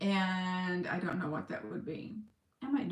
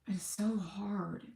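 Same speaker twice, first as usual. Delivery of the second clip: breathy whisper, slowed right down; whispered despair; 4 dB quieter, slower than usual. Real, not acted. Vlogger admitting her struggle, slow worn-out whisper. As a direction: let it fall out as a tired whisper. Despair after forcing positive thinking.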